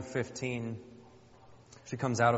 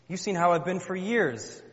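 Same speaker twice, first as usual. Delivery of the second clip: raised, louder reproach; exasperated wife; 6 semitones higher, 5 dB louder than usual. Acted. Wife reproaching husband after years of hurt, exasperated. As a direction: plead the long grievance at a higher pitch. Acted wife's quarrel with husband.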